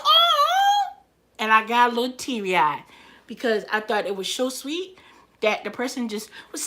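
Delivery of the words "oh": high, loud acted-out "aww"; touched exclamation. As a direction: coo loudly over a rescued puppy. Acting out her reaction to movie rescue.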